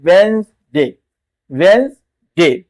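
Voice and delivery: वेंसडे slow, "wenz-day"; correct version. Shown as a demonstration. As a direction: stretch वेंसडे with a z sound. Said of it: "ज पढ़ा जाता है". (वेंसडे को "ज़" के साथ धीरे बोलना)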